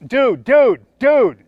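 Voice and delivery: rising alarmed "dude, dude, dude"; alarmed interruption. Acted. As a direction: snap a friend out of a rant. Coworker cuts off a rant.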